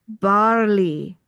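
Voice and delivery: barley in a plain English accent, slowly. Shown as a demonstration. Doctor explaining barley to viewers, English accent. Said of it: "when I say it with my English accent".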